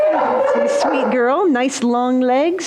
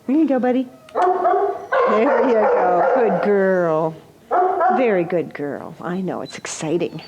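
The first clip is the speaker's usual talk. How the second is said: talking to a dog; 3 semitones lower than usual. Real, not acted. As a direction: coo gently over a dog. Giving treats to the dog.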